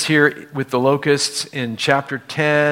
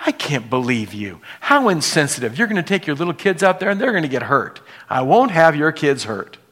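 Pharaoh; faster than usual. Retold or imitated. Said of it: "He goes".

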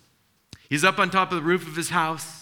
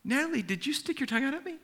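stern dad; 11 semitones higher, faster than usual. Retold or imitated. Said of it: "I go".

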